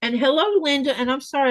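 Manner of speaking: talking while crunching pretzels; eating pretzels. Real, not acted. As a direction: chew and talk at once. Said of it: "I'm eating pretzels at the same time".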